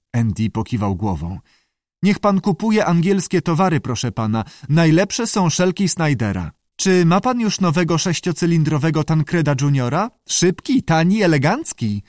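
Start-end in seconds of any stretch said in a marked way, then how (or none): 2.0-12.0 high creature reciting advertising slogans; squawky salamander. A narrator's reading. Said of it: "zaskrzeczała". (skrzekliwe recytowanie reklam przez salamandrę)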